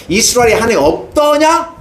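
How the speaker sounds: high, rising, aching question; grieving God. Acted. God grieving over Ahaziah's idolatry, aching rise. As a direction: let the sorrow rise on 없더냐. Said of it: "안타까워하는 거예요".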